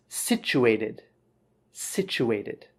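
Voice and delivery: situated said as SICH-oo-ay-tid, falling at the end; model pronunciation. Shown as a demonstration. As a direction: model "Situated" clearly, CH sound in the middle. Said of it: "couple of pronunciation things".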